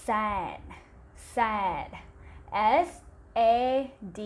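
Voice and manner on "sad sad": "sad" said clearly with an open แอ vowel; model pronunciation. Shown as a demonstration. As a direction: say "sad" carefully for the class to repeat. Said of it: "คำนี้ออกเสียงว่า". (ออกเสียง "sad" ชัดๆ ให้นักเรียนพูดตาม)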